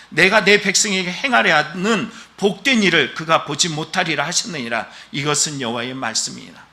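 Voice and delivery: reading out God's word in measured solemn tones; scripture reading. Acted. Pastor reads the verse to the congregation, understated solemn scripture reading.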